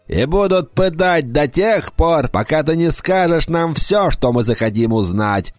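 high, menacing harpy voice. Acted. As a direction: threaten like a cruel bird queen. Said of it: "гарпия сказала".

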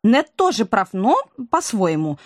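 eager agreement. Acted. Woman chimes in after Valera.

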